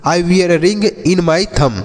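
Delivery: very slow, every word stretched; slow model sentence. Shown as a demonstration. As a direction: say it slowly so pupils can copy. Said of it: "जैसे आप बोल सकते हैं". (धीरे-धीरे, शब्द खींचकर)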